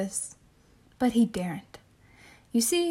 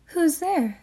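put-on old lady voice; 6 semitones higher than usual. Old lady in read story.

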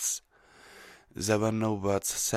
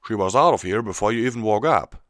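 country pony voice; 4 semitones higher, 10 dB louder, faster than usual. Acted. Applejack's character voice.

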